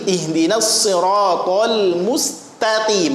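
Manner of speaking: mustaqim slowly with light "ta", heavy q; thin ta, thick qaf. Shown as a demonstration. Teacher models the verse, ta thin and qaf thick. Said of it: "tanya tipis".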